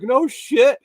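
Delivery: high-pitched, emphatic disbelief; amazed reaction. Retold or imitated. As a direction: retell an astonished exclamation, pitch jumping up. Retells own amazed reaction.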